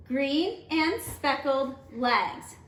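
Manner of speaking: slow, syllables spaced evenly; teacher reading a haiku line; read slowly for clapping. Shown as a demonstration. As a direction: read it evenly, one beat each. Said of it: "Let's count that out".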